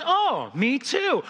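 high, slow, drawn-out mock delight; delighted agreement. Bridge stranger finds an even closer match, hammed-up delight. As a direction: savour the coincidence, hammed up. Joke character's growing delight.

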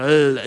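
"Ugh" as a clumsy attempt at a trilled R; failed rolled R. Shown as a demonstration. Pastor shows congregation his dead tongue, botching a rolled R. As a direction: try rolling an R on "Ugh" and fail. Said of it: "I can't roll my R's".

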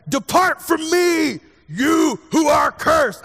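slow, high, loud booming pronouncement; drawn-out dramatic shout of condemnation. Acted. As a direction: thunder it down like a wrathful judge. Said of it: "I don't know why he's talking like that now".

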